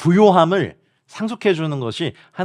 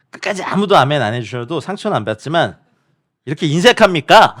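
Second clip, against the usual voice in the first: mock reproach; 4 dB louder than usual. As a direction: scold the audience in jest. Preacher teases viewers for no amens.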